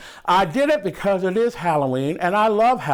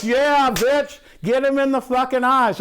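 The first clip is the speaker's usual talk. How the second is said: imitating an excited moviegoer, higher pitched; cheering audience member; 6 semitones higher than usual. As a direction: egg the heroine on, lightly hammed up. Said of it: "And the audience is like".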